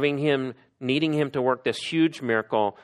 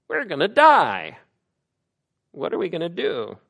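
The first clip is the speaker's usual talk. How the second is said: high-pitched cry of terror, loud at first; panicked scream; 7 semitones higher, 5 dB louder than usual. Acted. Preacher voices terrified rowers seeing a figure on the sea, panicked scream. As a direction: cry out as if about to drown. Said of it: "they scream".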